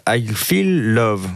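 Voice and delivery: mock English accent, very slow; self-mocking English accent, drawn out. Shown as a demonstration. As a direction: stretch the song title out in a proud English accent. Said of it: "mon accent anglais qui est formidable".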